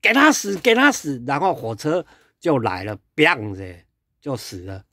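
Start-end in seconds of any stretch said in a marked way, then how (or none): 0.0-1.2 much higher, fast jeering voice; mock him as he climbs, gleefully; cruel taunting. Imagined crowd kicking the man back down, high jeering. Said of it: "踩".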